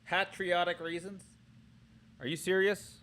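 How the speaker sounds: high, soft disbelief; incredulous question. Real, not acted. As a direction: question it as if you can't believe it. Reacting in disbelief to the bad script.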